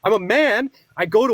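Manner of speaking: heated, emphatic self-assertion; getting emotional. Real, not acted. Debater insisting on his manhood to a dismissive opponent, worked up. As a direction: assert yourself with rising heat. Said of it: "You're getting emotional again".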